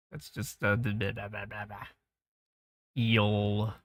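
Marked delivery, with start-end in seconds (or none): 0.1-1.9 trailing off into a whisper; fading to whisper. Real, not acted. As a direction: let it fade out to a whisper. Fades into whisper.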